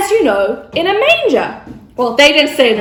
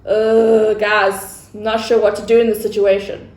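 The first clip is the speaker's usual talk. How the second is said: Joseph's voice; 4 semitones lower, 3 dB quieter than usual. Acted. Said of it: "Now Joseph was like".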